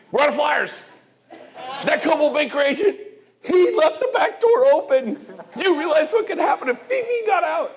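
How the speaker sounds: high, loud whiny complaining client, half laughing; fussy seller. Retold or imitated. Agent mimics a demanding seller to the audience, high and loud with laughs. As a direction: play the shrill-pitched homeowner fretting about her cat.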